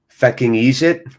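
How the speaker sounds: loud try at Irish "fecking eejit"; Irish accent, rising questioningly; attempted Irish. Shown as a demonstration. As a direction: test out an Irish-accented insult. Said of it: "like that?".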